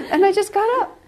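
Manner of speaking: loud and high, laughing through it. Real, not acted. Finishing the story for listeners while laughing loudly. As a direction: say it still laughing hard.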